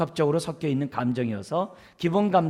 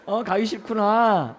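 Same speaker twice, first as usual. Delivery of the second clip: slow, higher, syrupy mom; sweet mom voice; 5 semitones higher, slower than usual. Retold or imitated. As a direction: overdo the gentle empathy, almost cloying. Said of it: "닭살 돋죠?". (느리고 달콤한 엄마 말투)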